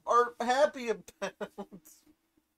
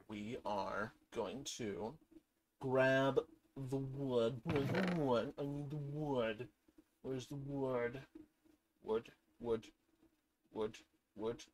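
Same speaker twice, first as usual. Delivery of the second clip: low, softer, slow murmur; softly murmured search for wood; hushed; 6 semitones lower, 7 dB quieter than usual. Acted. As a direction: mutter it under your breath while searching. Quiet hushed play narration.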